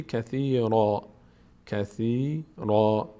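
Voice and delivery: کثیرا read as kasira with a heavy ra at the pause; pausal form. Shown as a demonstration. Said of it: "اگر وقف کنیم". (وقف بر کثیرا با رای پر)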